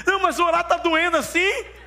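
very high, loud mock child voice; puzzled little boy. Small son asking his praying father, puzzled. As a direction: imitate a small son's worried question.

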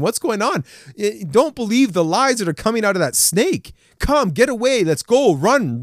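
lightly acted husband urging his wife to flee; urgent mock plea to run from the snake; urgent warning. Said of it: "he should have told his wife".

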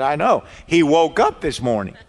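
mock frantic excitement, short of a scream; retold frantic woman. Woman phones preacher about husband waking up, retold frantic yelling. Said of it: "a frantic woman screaming and yelling".

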